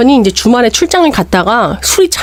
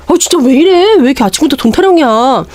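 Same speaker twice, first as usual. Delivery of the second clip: husband fed up with money talk, voice jumping up; irritated husband; 5 semitones higher than usual. Retold or imitated. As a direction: snap back at the nagging wife.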